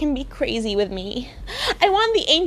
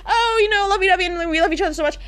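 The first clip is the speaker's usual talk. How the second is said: mock lovey couple; 6 semitones higher, much faster than usual. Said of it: "you guys are all like".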